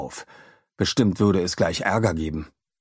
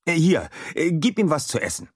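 higher, friendly scientist voice; a kind inventor letting a boy in on a secret; Adam voice; 9 semitones higher than usual. A narrator's reading. (freundlicher Wissenschaftler, höher gesprochen)

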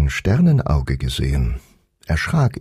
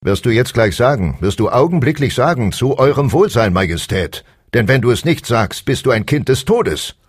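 threatening stablemaster; 6 semitones higher than usual. A narrator's reading. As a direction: menace him into obeying. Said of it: "da mischte sich der Stallmeister hinein". (drohender Stallmeister)

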